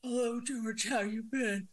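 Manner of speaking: muffled, distorted voice; voice in a bubble. Real, not acted. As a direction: sounds like inside a bubble. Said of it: "You sound like you're in a bubble".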